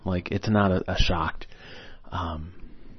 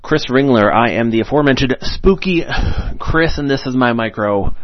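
theatrical villain; 4 semitones higher, 6 dB louder than usual. Acted. Spooky host persona intro.

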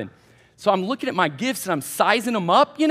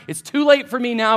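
usual speaking voice

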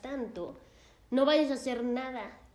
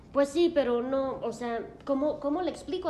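louder, higher hesitant yes-but-no; torn doubt; 3 semitones higher, 4 dB louder than usual. Retold or imitated. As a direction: waver between agreeing and refusing. Patient doubting the explanation.

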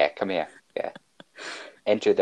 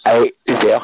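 calling out; 2 semitones higher, 8 dB louder than usual. Pretend.

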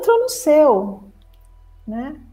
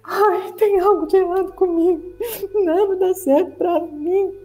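higher, tearful whine of a self-pitying ego; whiny self-pity; 6 semitones higher than usual. Acted. The ego telling your conscience something is wrong, tearful whine. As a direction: whimper it like someone sure they're broken.

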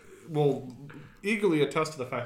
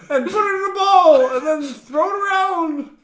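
mom voice; 10 dB louder than usual. Retold or imitated. Continues the mom bit.

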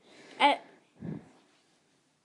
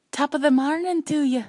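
put-on Irish accent; 4 semitones higher, 5 dB louder than usual. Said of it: "do an accent".

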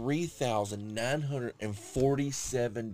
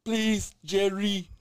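dying; 6 semitones higher, 6 dB louder, much slower than usual. Pretend. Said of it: "what you sound like dying".

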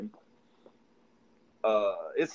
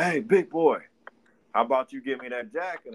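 menacing thug demand; 5 dB louder, faster than usual. Retold or imitated. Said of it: "He's like".

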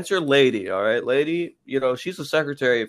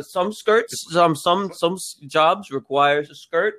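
mock smug comeback; 5 semitones higher, slower than usual. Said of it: "she says".

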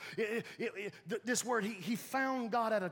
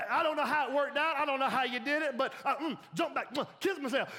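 comedian bit; 3 semitones higher than usual. Retold or imitated. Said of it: "That was a comedian".

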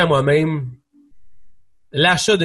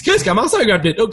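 mock doubtful friend, pitched up on his name; unconvinced friend; 3 semitones higher than usual. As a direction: imitate a skeptical buddy questioning the idea. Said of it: "le pas trop content slash sûr".

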